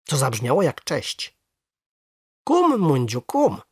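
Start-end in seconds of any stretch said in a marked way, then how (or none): 2.5-3.6 high, lilting frog-talk hello; greeting. A narrator's reading. Boy greets his returned frog, in a high greeting voice. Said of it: "przywitałem się".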